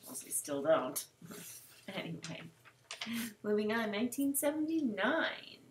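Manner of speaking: breathy whisper, almost no voice; whispered aside. Real, not acted. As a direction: slip it in under your breath. Quick aside between diary readings.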